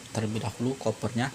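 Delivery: ordinary talk, nothing marked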